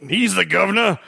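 hammed-up Cockney, dragged out at the end; mock Cockney. Host mocking implausible movie dialogue, exaggerated Cockney. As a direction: parody Cockney, rising into a slow shout. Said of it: "appropriate Cockney thing for you to say".

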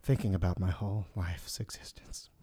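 low, hushed, dropped out of the chant; subdued answer. Pretend. Guest abruptly pondering existence mid-game, subdued. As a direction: let it fall low and soft.

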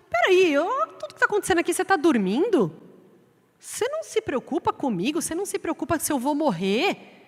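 panicked disciples. Acted.

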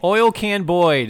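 slow, rote mock recitation; mechanical recital. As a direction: imitate someone reciting names by rote.

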